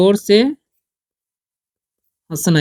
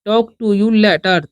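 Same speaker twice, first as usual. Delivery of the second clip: slow dictation; much slower than usual. Shown as a demonstration. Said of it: "जैसे मैं".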